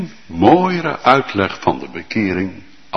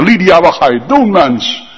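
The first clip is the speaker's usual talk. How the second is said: a hint of a shocked neighbour, higher; alarmed onlooker; 7 semitones higher, 4 dB louder than usual. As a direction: warn her in disbelief. Onlookers warn Lydia. (een gealarmeerde buurman waarschuwt Lydia, verbaasd)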